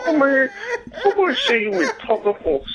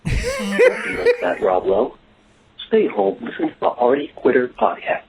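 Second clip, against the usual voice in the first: Rob Lowe again; 6 semitones lower than usual. Acted. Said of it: "He went from Rob Lowe to Wiggle Rob Lowe".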